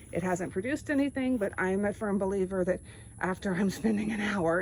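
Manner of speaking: winded from digging; panting a little between words; out of breath. Real, not acted. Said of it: "you can tell I'm out of breath".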